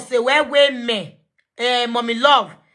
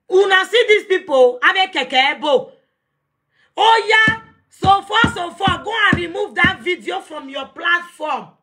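shout; 5 semitones higher than usual. Real, not acted. Demands the video be removed.

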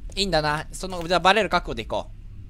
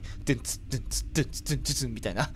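beat imitation; 8 semitones lower, 8 dB quieter, much faster than usual. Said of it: "何そのリズミカルな動き".

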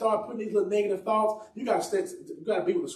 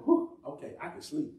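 relieved; 3 dB quieter than usual. Retold or imitated. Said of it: "all of a sudden peace hits me".

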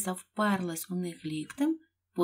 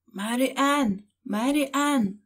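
loud call, voice raised to summon; 5 semitones higher, 4 dB louder, slower than usual. Acted. Rabbit calling for his maid, loud call. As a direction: call the name from outside, loud. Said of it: "гукав голос".

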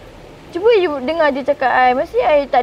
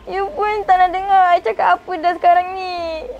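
put-on hurt girlfriend holding back crying; tearful complaint; 3 semitones higher than usual. Girlfriend tearfully telling her boyfriend he no longer listens. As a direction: voice wobbling with tears as she pleads.

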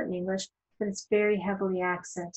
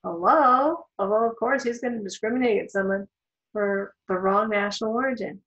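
mock incredulous inner voice; 3 dB louder than usual. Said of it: "You might think to yourself".

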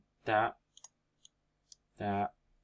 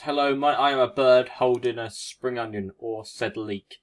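bird voice; 2 semitones higher, 8 dB louder than usual. Acted. Voicing the Farfetch'd he drew.

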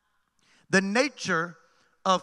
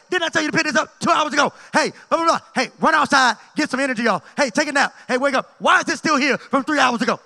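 loud, high-pitched mock yelling at the kids; exasperated parent yelling; 5 semitones higher, 7 dB louder than usual. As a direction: bark orders at the children like a worn-out parent, hammed up. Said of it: "This is what my Saturday sounded like".

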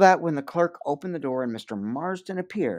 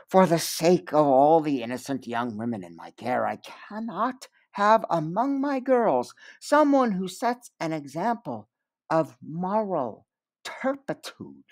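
honeyed regret; 4 semitones higher, 3 dB louder than usual. Acted. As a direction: pour on the false sorrow like honey. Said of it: "dripping with the honey of regret".

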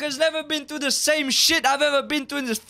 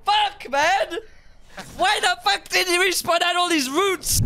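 angry shouting; 4 semitones higher than usual. Real, not acted. Raging at game update.

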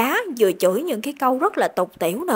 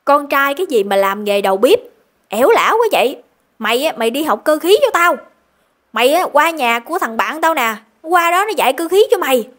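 a retold father's angry scolding, louder; 3 semitones higher, 4 dB louder than usual. Father forbids his son cooking school, angry scolding. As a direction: bark it at the son like a strict dad. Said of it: "ba của ảnh ... mới nói là".

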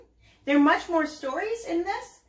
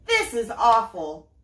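a moderate shout, louder; 3 semitones lower, 4 dB louder, slower than usual. Acted. Pearl upset at her brother, a mild shout. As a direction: Pearl shouts in dismay, mildly played. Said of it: "shouted Pearl".

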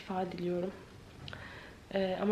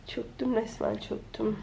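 hoarse voice. Real, not acted. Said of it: "Sesime bakın".

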